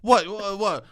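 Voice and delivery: a cultured New York dad scolding his son; New York Italian dad impression. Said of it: "he goes".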